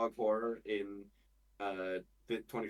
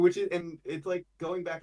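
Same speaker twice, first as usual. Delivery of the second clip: higher, would-be British accent; put-on British accent; 7 semitones higher, 5 dB louder than usual. Shown as a demonstration. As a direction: keep up a fancy British-style accent.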